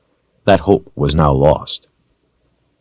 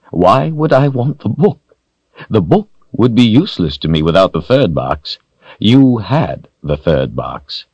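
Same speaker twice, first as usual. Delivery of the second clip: sinister villain voice; 3 semitones higher than usual. Acted. Villain Rawl speaks to Richard.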